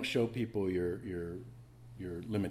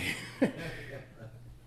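airy rising chuckle; breathy laugh; 7 semitones higher than usual. Real, not acted. Laughing at his own joke, airy chuckle.

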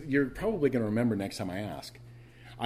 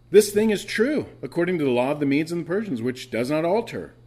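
king's declaration; 4 semitones higher, 5 dB louder than usual. Acted. King's voice in the reading.

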